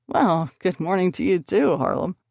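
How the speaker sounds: dry sarcastic greeting. Acted. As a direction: say it with mock cheer. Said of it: "Blaze answered sarcastically".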